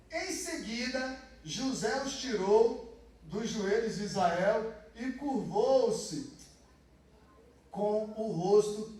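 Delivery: loud, emphatic sermon reading; fervent preaching. Acted. Pastor retelling Joseph's story to the church, fervent and loud. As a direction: proclaim the story with force.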